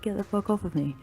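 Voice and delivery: high-pitched mock protest; retold protest. Girl telling the attacking neighbour to let go, high mock protest. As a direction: push the pitch way up, imitating a struggle. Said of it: "I'm like".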